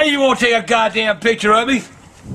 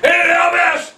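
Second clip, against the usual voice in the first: raised, shouted outburst; angry hollering; 4 semitones higher than usual. Real, not acted. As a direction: yell it out, worked up. Yelling about Elvis.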